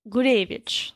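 Gurevich with the stress on the second syllable, gu-RAY-vich; corrected pronunciation. Shown as a demonstration. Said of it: "I really Americaned that".

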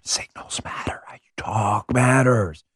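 breathy stage whisper of the slogan. Acted. Host whispers his own slogan to the audience, hushed. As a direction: whisper it like a secret warning.

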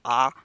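"ah" as an open Nova Scotian A. Shown as a demonstration. Host showing how Nova Scotians say A, open "ah". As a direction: say "ah" for the Maritime A. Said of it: "they do their A's like".

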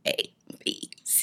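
letters belched one by one; low-volume burping through the letters; burped alphabet. Shown as a demonstration. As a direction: burp each letter separately. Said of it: "I can burp the alphabet".

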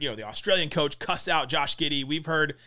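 normal talking voice

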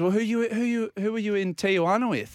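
high-pitched, stumbling demand for answers; incredulous questioning. Retold or imitated. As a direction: imitate a baffled doctor probing. Doctor interrogating, retold in story.

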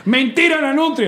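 put-on high sing-song Mérida accent; amateur high-pitched merideño imitation; attempted Mérida accent. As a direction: have a go at an Andean Mérida lilt. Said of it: "Yo soy malo para los acentos".

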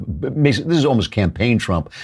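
ordinary delivery

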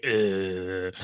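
low groaning "uh" as a mock Australian accent; hopeless Australian accent, just a groan; failed Australian accent grunt. Shown as a demonstration. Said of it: "can you do an Australian accent".

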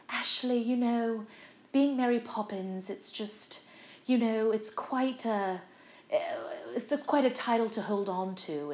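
lightly voiced stage legend, slow and measured; unhurried, hesitant impression of a gracious star; Julie Andrews. Julie Andrews advising a fellow Mary Poppins, lightly imitated. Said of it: "and she was like".

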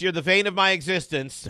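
"vein" starting with V, mockingly; mispronounced BANE. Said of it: "because it's wrong. It's Bane".

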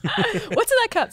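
high, startled question; surprised. Real, not acted. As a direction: blurt it out high. Teasing outburst.

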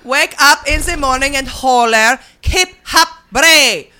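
mock Melania reading. Comedian as Melania, echoing the book in her accent. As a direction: parrot the line in her accent. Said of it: "I don't know what language".

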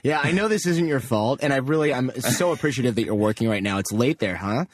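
butter up the phone rep; sweet and polite. Retold or imitated. Sweet to customer service rep.

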